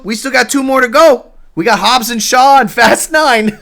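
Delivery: loud, high, laughing; laughing tease. Real, not acted.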